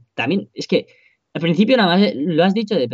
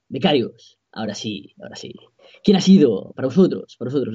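Josep Pedrerol impression. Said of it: "Has imitado de puta madre".

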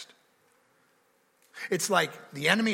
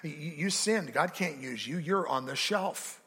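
quiet accusation; 5 dB quieter than usual. Retold or imitated. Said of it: "Satan accuses you all the time of".

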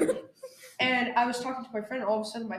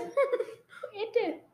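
slow laughing echo; 9 semitones higher, 4 dB quieter, much slower than usual. Pretend. Echoing the bit.

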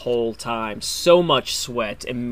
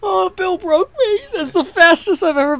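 laughing; 5 dB louder than usual. Real, not acted. After laughing fit.

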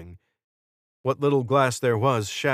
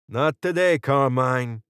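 higher, raised voice calling to someone below; 4 semitones higher, 5 dB louder than usual. A narrator's reading. Jordan calling down to wounded Carmine, raised and firm. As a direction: call down firmly to an ally. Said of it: "Jordan called down".

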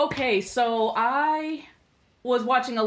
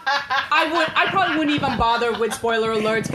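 laughing; 3 semitones higher, 3 dB louder than usual. Real, not acted. Laughing reply to joke.

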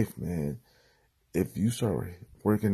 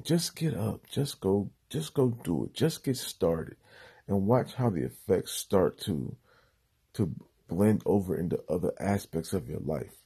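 muffled. Real, not acted. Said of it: "I sound a little muffled right now".

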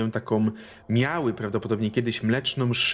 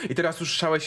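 ordinary talk, nothing marked

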